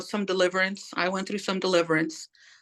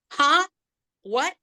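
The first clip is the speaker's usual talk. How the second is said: sudden high startled huh; shocked, caught off guard; stunned huh; 9 semitones higher, 4 dB louder than usual. Retold or imitated. To her brother's apology, a high startled huh.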